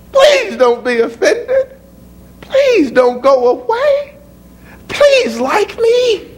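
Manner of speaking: high, slow, whining plea; mock whiny pleading. A needy Jesus begging crowds, high slow whining plea. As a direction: beg pathetically in parody.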